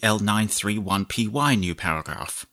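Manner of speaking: measured dictation, punctuation spoken aloud; slow dictation with punctuation. Shown as a demonstration. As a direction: dictate to the computer, clear and even. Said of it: "demonstrate how you can dictate much longer chunks".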